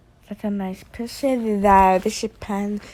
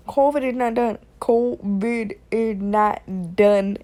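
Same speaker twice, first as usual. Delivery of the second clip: slow emphatic repeat; 6 dB louder than usual. Shown as a demonstration. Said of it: "I'm gonna say it many times".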